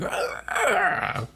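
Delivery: high mock cry of pain; imitated monster cry. Mother Brain getting blown out, imitated high cry. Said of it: "Mother Brain's like".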